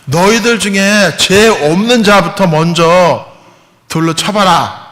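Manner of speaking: solemn Jesus, slow and weighty; Jesus speaking. Retold or imitated. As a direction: deliver it as a grave challenge to the crowd. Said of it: "예수님께서 ... 뭐라고 하시냐면은".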